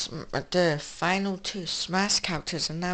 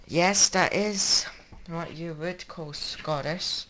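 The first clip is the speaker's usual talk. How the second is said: bad Scottish accent. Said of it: "That was a very bad impression".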